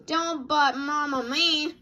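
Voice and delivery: 1 scolding. Acted. Mama scolds cub.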